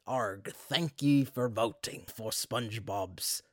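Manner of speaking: slow, put-on pirate accent with a growly "Arg". Imitating the phone line's recorded pirate message in a pirate accent. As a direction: drawl it out like a hammy pirate recording. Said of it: "what kind of pirate accent that was".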